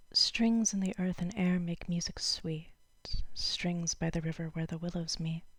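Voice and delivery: measured poem recital with pauses between lines; lightly performed poetry reading. Acted. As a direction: read the verse aloud, letting each line settle. Reads a poem aloud.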